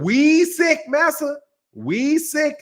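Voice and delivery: hammed-up fawning servant; mock fawning servant echoing his master; mock servile whine.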